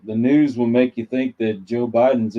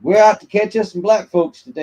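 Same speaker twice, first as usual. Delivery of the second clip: higher and louder, hammed-up villain cop; mock racist cop; 8 semitones higher, 5 dB louder than usual. Mocking how the media paints police, hammed-up racist cop. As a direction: sneer it like a cartoon bad cop.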